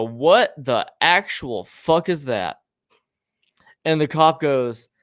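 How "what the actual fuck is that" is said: slow, emphatic retold outburst; audible disbelief. Reacting to the dumpster photo, audibly stunned. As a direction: let each word land, incredulous. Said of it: "audibly from ten feet away".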